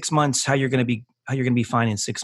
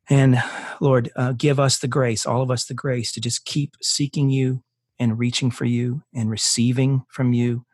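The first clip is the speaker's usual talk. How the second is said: closing prayer. Acted. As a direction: pray it over every listener, unhurried.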